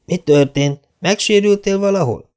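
high concerned mother voice; Mrs. Barry asking. A narrator's reading. Mrs. Barry asking hurt Anne, high and concerned. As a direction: ask with worry. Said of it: "kérdezte Mrs. Barry".

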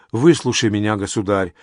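usual speaking voice

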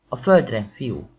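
loud barked order that drops off at "fiú"; command. Acted. Policeman ordering the boy down, loud command. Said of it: "parancsolt rá".

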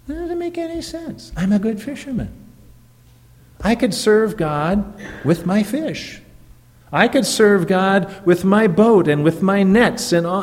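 a high, indignant voice pleading to keep his boat; protesting Peter. Acted. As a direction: argue back as a puzzled fisherman. Preacher voicing Peter's objection.

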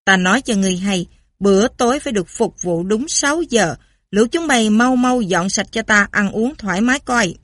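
lightly voiced haughty lord; haughty English lord. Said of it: "Lãnh chúa Anh quốc, trịch thượng". (lãnh chúa Anh trịch thượng, nhẹ)

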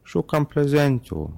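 put-on high, slow lisping child voice; lisping little girl. A narrator's reading. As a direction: lisp it like a small girl. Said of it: "wysepleniła".

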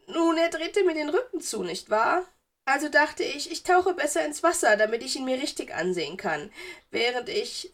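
put-on high, coy girl-ghost voice; erzählendes Geistermädchen. A narrator's reading. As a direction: recount your spying with girlish innocence. Narrator voices smitten ghost girl. (hoch und kokett erzählend)

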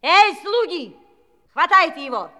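high, fast, shouted orders to her servants; gleeful shouting. Acted. Evil fairy shouting fast, gleeful orders at her servants. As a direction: yell at the servants to tear his hair out, racing along.

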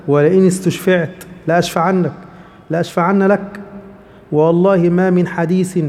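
slow, measured classical Arabic reading; slow solemn narration of the hadith; hadith recitation. Acted.

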